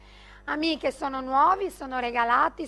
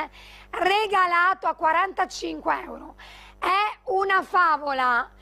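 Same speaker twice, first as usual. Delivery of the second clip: infomercial; 2 semitones higher than usual. Acted. Live sales pitch, prices shouted.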